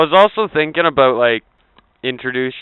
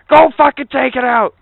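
higher, louder barked command; mock angry order; 11 semitones higher, 5 dB louder than usual. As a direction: send him out with fake fury. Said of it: "Be like".

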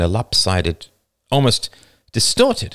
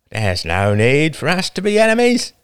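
put-on younger boy voice; 10 semitones higher, 3 dB louder than usual. A narrator's reading.

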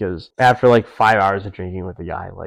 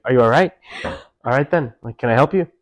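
put-on British accent; 2 semitones higher than usual. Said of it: "I think these people aren't from the U S".

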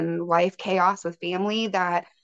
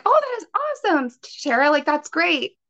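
much higher, bright burst of retold delight; retold excitement; 8 semitones higher than usual. Guest retelling her excited reply to her cousin, mock gushing. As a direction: gush like the news just landed.

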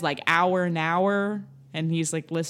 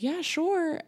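frozen shock; 11 semitones higher than usual. Retold or imitated. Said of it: "I was like".

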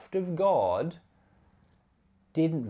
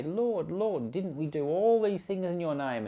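higher, insistent appeal to the Lord; pleading crowd; 6 semitones higher than usual. Retold or imitated. People on judgment day pleading with the Lord, higher insistent plea. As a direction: beg to be recognized.

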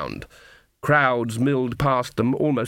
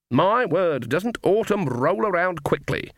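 sour; 6 semitones higher, slower than usual. Acted. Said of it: "said Granny sourly".

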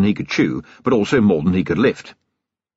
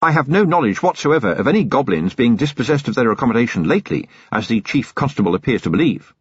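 prim; 4 semitones higher than usual. Acted. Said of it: "He added primly".

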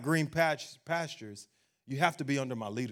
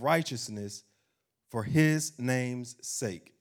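slow, deliberate, slightly louder reading; solemn scripture reading; 4 dB louder, slower than usual. Acted. Preacher reads Psalm twenty-three to the congregation, slow and solemn. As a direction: weigh each line of the psalm.

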